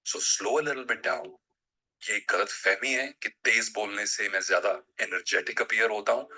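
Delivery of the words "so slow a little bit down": very slow, every word drawn out; slowed right down. Shown as a demonstration. Voice coach to viewers, demonstrating slow, unhurried delivery. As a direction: show them what slow sounds like. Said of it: "Slow down".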